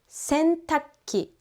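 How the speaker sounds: "sentakki" with the ku dropped to a held stop; casual sentakki. Shown as a demonstration. Teacher showing the casual clipped word. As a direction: squeeze "sentakki" into a snap. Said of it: "We change to".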